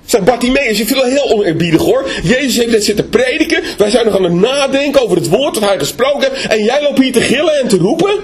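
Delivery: high, reproachful scolding; indignant crowd. Acted. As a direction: shame the noisy beggar. Voicing the crowd rebuking Bartimaeus. (verontwaardigd berispend)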